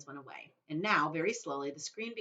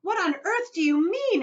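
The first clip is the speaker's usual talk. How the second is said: high, loud sharp demand; father alarmed at Wonka; 14 semitones higher, 11 dB louder than usual. Acted. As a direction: snap the question. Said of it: "asked Mister T V sharply".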